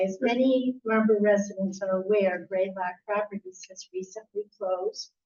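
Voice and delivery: statement read audibly for the room; projected public-comment reading into the microphone; speaking up. Real, not acted. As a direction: read it out so the room can hear. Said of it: "I can't, I can't hear you".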